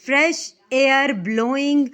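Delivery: slow, loud, spaced "Fresh air blowing"; stretched, emphatic "Fresh air blowing"; counting out syllables. Shown as a demonstration. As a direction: give "Fresh air blowing" one beat at a time. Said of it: "इसमें कितने syllables हो गए?".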